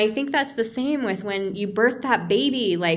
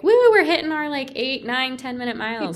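mock cheer; 5 semitones higher than usual. Mock fast runners cheering.

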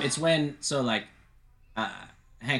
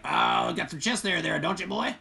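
slower, higher lightly voiced Hank teasing the boy; a hint of Hank, drawn out and a bit higher; Hank impression; 5 semitones higher than usual. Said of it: "That's my Hank impression".

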